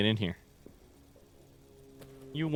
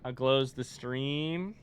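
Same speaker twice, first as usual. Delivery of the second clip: slow hushed grand read; theatrical reading; 5 dB quieter, much slower than usual. Acted. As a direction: read it like old poetry. Reading raid message slowly.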